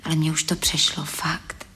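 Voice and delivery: whisper. Acted. Confiding to Lojza late at night.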